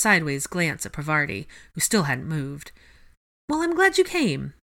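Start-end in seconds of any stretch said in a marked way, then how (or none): 3.5-4.5 high-pitched, friendly encouragement; kindly, high-voiced reassurance; encouraging. A narrator's reading. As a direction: welcome a hesitant guest, pitched well up. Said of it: "encouraged Hermione".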